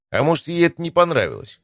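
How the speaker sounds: high, teasing question with a smirk; mock-innocent smirk. A narrator's reading. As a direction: ask it through a smirk, pitched well up. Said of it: "спросил Стас с ухмылкой".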